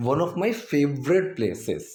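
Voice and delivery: very slow, word by word; slow dictation read; slow model sentence. Shown as a demonstration. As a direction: lay it out for the class. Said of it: "place नहीं".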